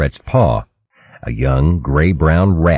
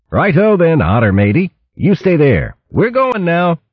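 raised, jaunty thief voice; breezy and cocky; cheeky mouse voice; 12 semitones higher than usual. A narrator's reading. Gonf voiced in story.

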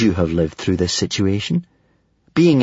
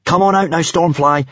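higher-pitched urgent order; 6 semitones higher than usual. A narrator's reading. Hiccup orders his dragon to come out, urgently. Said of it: "Hiccup ordered the Mood Dragon".

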